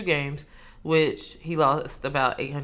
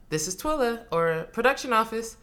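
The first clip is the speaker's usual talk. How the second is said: higher-pitched phone greeting; professional voice; 5 semitones higher than usual. Shown as a demonstration. Twilla answering the production office phone, professional. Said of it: "This is my professional voice".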